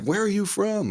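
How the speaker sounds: put-on high, eager girly question; mock the girls asking him where he is from; curious girls. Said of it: "but they were like".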